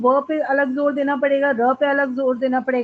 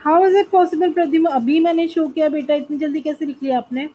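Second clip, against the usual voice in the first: real incredulous challenge; 2 semitones higher, faster than usual. Real, not acted. Teacher to student who claims to have noted already, incredulous. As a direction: question the student in disbelief.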